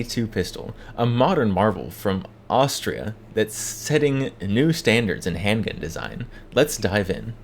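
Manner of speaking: voiceover. Acted. Host welcoming gun enthusiasts to the video, voiceover. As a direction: present it like a measured announcer.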